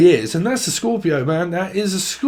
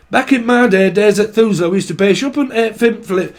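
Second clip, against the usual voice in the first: put-on old-timer grumbling in northern dialect; northern English accent. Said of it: "or up north".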